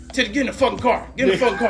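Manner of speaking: loud, high, exasperated command; mock yelled order. Drunk friend ordering another into the car, mock yell. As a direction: bark it like a fed-up hype man. Matt yelling orders at Titty.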